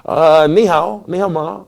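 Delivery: ni hao said slowly in Mandarin tones; Chinese greeting. Shown as a demonstration. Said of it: "do you speak Chinese?".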